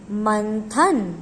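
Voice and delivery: मंथन stretched out slowly so the न nasal is heard before थ; slow careful pronunciation. Shown as a demonstration. Teacher to students, slowly modelling मंथन. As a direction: sound out मंथन very slowly and clearly. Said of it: "किसका उच्चारण सुनाई दे रहा है हमें?".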